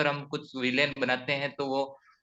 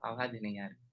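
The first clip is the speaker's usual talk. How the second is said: choppy cutting-out connection; radio breaking up; 3 semitones lower, 13 dB quieter than usual. Real, not acted. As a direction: voice dropping out on a bad line. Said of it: "वापस cut रही है sir आवाज".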